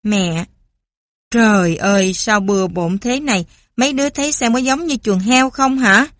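mẹ mắng con, to tiếng; la lên vì nhà bừa bộn; mẹ quát. Acted. (mẹ quát mắng)

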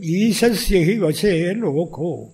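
slow, measured Sanskrit recitation; Sanskrit quote. Retold or imitated. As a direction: recite the verse slowly and deliberately. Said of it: "നാരദൻ പറയും".

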